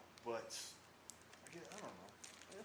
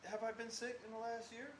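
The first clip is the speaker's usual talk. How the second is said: defensive; 8 semitones higher than usual. Real, not acted. Defensive protest about being sick.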